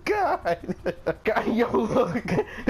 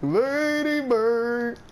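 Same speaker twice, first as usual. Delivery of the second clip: slow stretched call, a bit higher; Hank Hill calling Lady Bird; 4 semitones higher, much slower than usual. Shown as a demonstration. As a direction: drawl Lady Bird slowly once more. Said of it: "I know how to do it".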